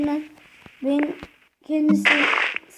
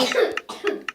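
dry unvoiced cough; short breathy cough; chesty cough. Real, not acted. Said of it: "ben de çok öksürüyorum". (göğüsten öksürük)

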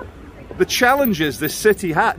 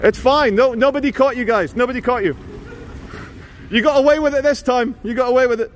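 raised, teasing call; joking; 5 semitones higher than usual. Real, not acted. Vlogger joking with guys nobody caught, high teasing call. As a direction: tease them in a higher voice, calling over. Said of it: "I'm joking".

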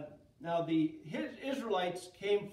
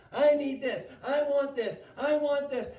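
loud, higher nagging demands; demanding people; 5 semitones higher, 9 dB louder than usual. Acted. People pestering a frustrated leader with demands.

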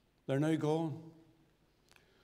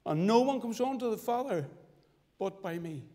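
scripture recitation. Acted. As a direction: recite the verses reverently, measured.

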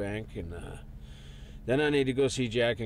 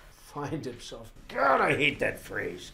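scornful echo; 2 semitones higher, slower than usual. Acted. Scoffs at wife's phrase.

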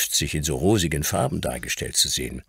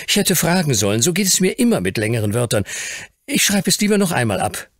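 put-on high, louder child character voice; eager young Fauntleroy; 11 semitones higher, 5 dB louder, faster than usual. A narrator's reading. Grandson admits his spelling trouble to the Earl, eager high voice. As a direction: voice an earnest little grandson, pitched high.

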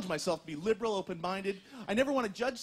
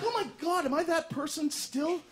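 mock dismay; 6 semitones higher than usual. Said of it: "I'm like".

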